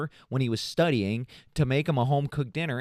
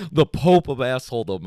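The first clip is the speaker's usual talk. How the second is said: retold punchline; 8 dB louder than usual. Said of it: "He's like".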